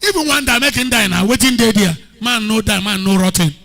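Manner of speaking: loud, blunt Pidgin English retort; rough Pidgin. Shown as a demonstration. Preacher showing how rough Pidgin sounds, loud. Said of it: "But this one rough".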